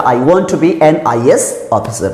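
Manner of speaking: slow, careful dictation of the right sentence; correct version. Shown as a demonstration. Teacher slowly dictating the correct sentence with an. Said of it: "तो जैसे लिखा".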